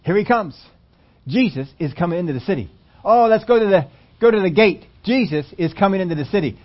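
acting out an eager crowd, pitch jumping up; excited crowd. Preacher voices the crowd awaiting Jesus at the gate, excited. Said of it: "They were all excited".

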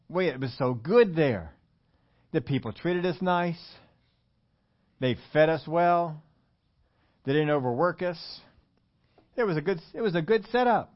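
put-on nostalgic complaint; mock complaining. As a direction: list grievances with pauses, as a mock complainer. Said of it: "they begin to complain".

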